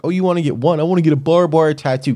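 high, mock-excited customer voice; mock eager customer. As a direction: parody a clueless tattoo customer. Mocking tattoo customer.

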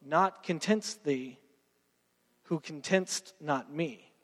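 slow, hushed lines of verse; poem recitation. Retold or imitated. Preacher quoting the poem, slow and fading. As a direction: let the line fade slowly. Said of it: "later he says".

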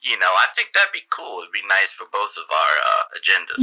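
smooth-talking sleazy politician; flirty mayor voice. Acted.

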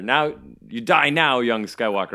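slow theatrical villain menace. Retold or imitated. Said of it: "Emperor Palpatine at the end".

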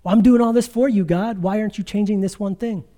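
imitating an exasperated believer; mock frustrated plea. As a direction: plead as if questioning God's fairness. Voices a man's complaint to God.

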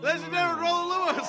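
booming host introduction; announcer voice. Acted. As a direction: announce him like a game show host.

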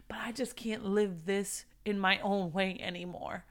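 hushed whispered plea; whispered prayer line. Acted. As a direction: breathe it out as a private confession to God. Whispered confession in acted prayer.

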